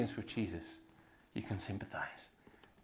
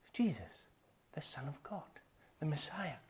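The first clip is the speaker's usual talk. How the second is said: whispered reverently, unvoiced; hushed whisper; 10 dB quieter than usual. Real, not acted. Preacher hushing to the congregation, whispered. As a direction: breathe the holy names softly.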